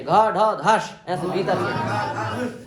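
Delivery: घ ढ धस with strong breath from inside; aspirated consonants. Shown as a demonstration. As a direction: push breath out on घ, ढ, धस. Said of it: "इनमें महाप्राण आना चाहिए". (महाप्राण उच्चारण)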